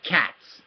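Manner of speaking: "Cats" said alone, ending on a clear ts; crisp final TS. Shown as a demonstration. Teacher modelling a sound for the learner, "Cats" with clear ts. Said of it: "first thing you have to do is say cats".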